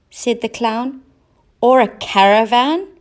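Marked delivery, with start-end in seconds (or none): 1.6-2.9 high, loud eager cat; cat with a bright idea. A narrator's reading. Cat's idea.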